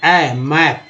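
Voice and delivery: मैप with its vowel said as open ऐ; vowel sounded ऐ. Shown as a demonstration. Teacher showing learners the A in map, ऐ sounded out in मैप. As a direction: sound out ऐ, then the word मैप. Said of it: "मैप में ए का उच्चारण हो रहा है".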